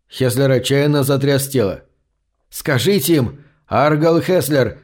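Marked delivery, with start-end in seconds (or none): 2.5-4.8 a mild shout into a dead man's ear; urgent mild shout, Аргал drawn slowly. Acted. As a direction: call the name, slow on Аргал. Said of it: "закричал он в мёртвое ухо".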